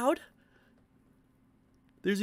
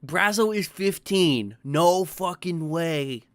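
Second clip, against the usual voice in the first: slow, drawn-out stunned disbelief; 3 semitones higher, 5 dB louder, much slower than usual. Real, not acted. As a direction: let each word sink in slowly. Stunned by streamer's age.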